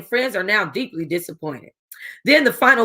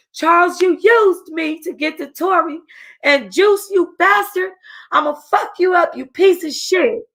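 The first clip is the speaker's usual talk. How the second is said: frantic crying rage, much higher; screaming in rage; 8 semitones higher than usual. A narrator's reading. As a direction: scream it at the man who betrayed her. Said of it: "D R screams".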